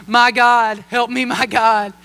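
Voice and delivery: slow, half-laughing plea to God; mock desperate prayer. Nervous driver pleading with God while the trailer swerves, slow mock prayer. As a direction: pray it like the trailer is about to flip. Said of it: "I'm praying as hard as I've ever prayed".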